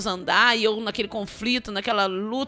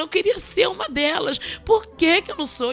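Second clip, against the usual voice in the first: higher, desperate question to God; preacher reliving weeping on the bus, pleading with God; retold anguished plea; 6 semitones higher than usual. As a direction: cry out to God why not me. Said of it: "aquela briga com Deus".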